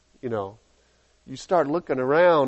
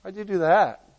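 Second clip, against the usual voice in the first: much softer, flat-toned oh really; unimpressed friend; 7 dB quieter than usual. Acted. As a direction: shrug it off coolly. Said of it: "And you go".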